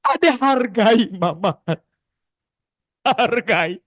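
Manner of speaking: annoyed mother. Retold or imitated. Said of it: "Kadang Bunda kesel".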